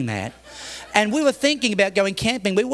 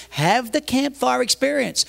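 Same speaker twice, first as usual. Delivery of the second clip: higher, drawn-out retort; retold impatient comeback; exasperated concession; 5 semitones higher, slower than usual. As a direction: slowly throw the words back at them. Pastor answers in retold argument.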